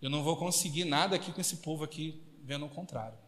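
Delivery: Jesus's command. Retold or imitated. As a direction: calmly order the crowd out. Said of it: "Ele falou".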